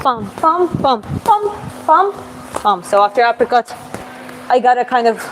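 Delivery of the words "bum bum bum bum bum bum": imitated punch sounds. Shown as a demonstration.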